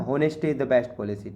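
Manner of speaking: slow, careful reading of the answer; slow dictation. Shown as a demonstration. Teacher dictating the answer sentence slowly to students. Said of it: "reading the answer sentence slowly".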